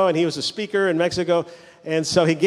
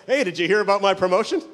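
excited bragging; 3 semitones higher than usual. Retold or imitated. Promoted man telling everybody his news, excited bragging. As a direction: brag eagerly as the newly promoted man. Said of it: "he was so excited".

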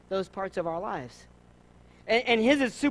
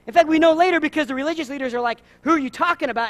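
rising preaching; 6 semitones higher, 6 dB louder, faster than usual. Real, not acted. Preaching build.

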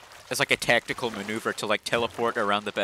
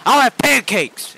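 put-on high, loud crotchety old man; Cotton Hill; 11 semitones higher, 11 dB louder, slower than usual. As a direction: holler it like a cantankerous cartoon grandpa. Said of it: "and he's like".

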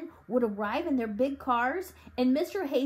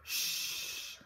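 breathy shush; hushing; 9 dB quieter than usual. A narrator's reading. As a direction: silence him quickly. Father hushing the boy.

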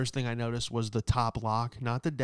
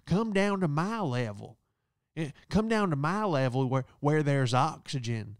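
snippy lady; 3 semitones higher than usual. Retold or imitated. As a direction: taunt him to come down to her level. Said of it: "She goes".

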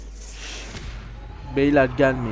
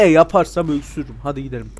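ordinary talk

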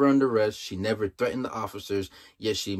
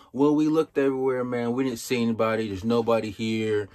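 annoyed cop; 2 semitones higher than usual. Retold or imitated. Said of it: "He's totally annoyed".

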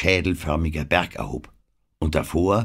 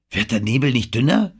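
raised, higher questioning call; 6 semitones higher, 4 dB louder than usual. A narrator's reading. Anne asks whether the fog is thinning, calling out. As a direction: call the question out, lifted in pitch. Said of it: "rief Anne".

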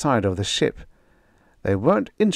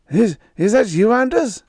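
high, strained voice calling over the radio; frantic radio voice; 6 dB louder than usual. Acted. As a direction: call out anxiously, pitched way up.

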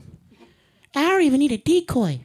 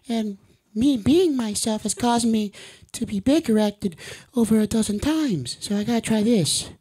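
Care Bear voice. Acted. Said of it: "I can't really do his voice this long".

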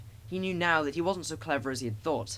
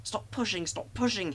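higher-pitched, strained protest; hissing; 7 semitones higher than usual. A narrator's reading. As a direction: hiss it at those shoving behind. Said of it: "he hissed".

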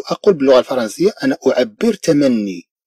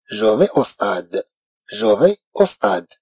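very slow, softer French; very slow model phrase; 4 semitones lower, 4 dB quieter, much slower than usual. Shown as a demonstration. French teacher giving the correct form, very slowly. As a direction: draw it out for learners. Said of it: "بل سأقول".

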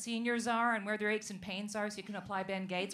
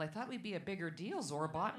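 alien voice; 6 semitones lower, 6 dB quieter than usual. Retold or imitated. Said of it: "going back to Roswell".

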